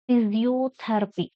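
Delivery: "Physiotherapy" stressed on "ther". Shown as a demonstration. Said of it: "Stress on T H E R".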